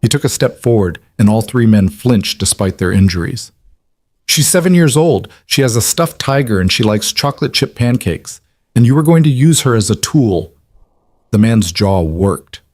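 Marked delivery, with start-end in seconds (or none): 4.3-10.5 higher, pressing fury at the abductor; indignant anger. Acted. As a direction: spit out each fact with outrage. Father furious at threat to child.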